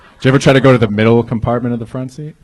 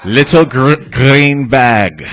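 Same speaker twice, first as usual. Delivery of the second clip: first try at a Russian accent, louder; hard syllables, Russian accent attempt; 5 semitones higher, 8 dB louder, much slower than usual. Shown as a demonstration. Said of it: "I just learned how to do a Russian voice".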